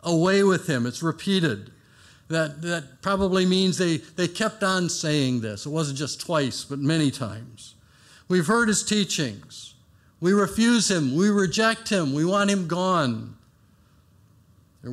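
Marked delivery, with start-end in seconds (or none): 0.0-0.9 louder, raised mob chant; mob cry. Acted. Preacher voicing the crowd crying out, loud. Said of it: "their words of contempt". 8.3-13.4 louder and higher, scornful refusal; crowd's defiance. Acted. Preacher voicing the crowd rejecting Jesus, loud and scornful.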